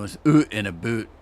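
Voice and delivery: oot and a boot with a long round oo, oot like hoot, boot like boot; exaggerated Scottish-like Canadian accent. Shown as a demonstration. Explaining to viewers how he exaggerates, in a heavy Canadian accent. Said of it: "more like a Scottish person".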